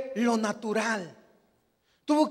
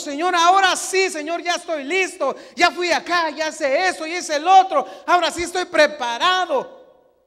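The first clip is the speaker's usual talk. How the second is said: louder, eager claim of being ready; eager believer; 4 semitones higher, 5 dB louder than usual. Retold or imitated. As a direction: announce you're finally ready, pushing. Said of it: "no cuando nosotros". (creyente ansioso, más fuerte, proclamando que ya está listo)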